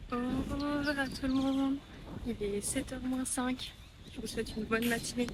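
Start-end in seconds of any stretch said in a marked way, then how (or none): 0.1-3.7 slow, cheerful morning hello; slow bright greeting. Real, not acted. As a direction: greet the viewers slowly and gently. (salut matinal lent et doux)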